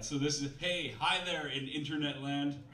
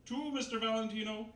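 disembodied voice; 11 semitones higher than usual. Acted. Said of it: "said the disembodied voice".

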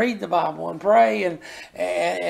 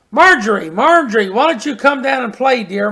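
louder, calling up the stairs; Mama calling; 3 semitones higher, 5 dB louder than usual. Acted. Mama calling her daughter down the stairs, calling out loud. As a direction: call her down like a mother from below. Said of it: "Mama called".

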